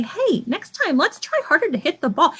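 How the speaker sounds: gentle, upbeat encouragement; encouraging tone. Shown as a demonstration. Teacher showing the kind way to encourage a brother. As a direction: say it kindly, like cheering him on. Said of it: "change your tone of voice and say".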